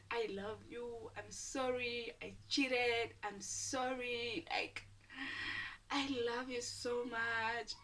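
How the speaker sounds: slow, stretched-out tearful apology, imitated; mock crying. Cheating boyfriend begging her forgiveness, mock crying. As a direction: imitate a cheater pleading, dragging each phrase. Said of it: "He was crying".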